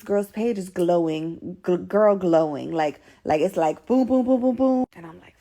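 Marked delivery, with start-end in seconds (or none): 3.9-4.8 rising run of punchy booms; imitated booms. Showing how the girl's page glows, punchy booms. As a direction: pop out booms, climbing higher.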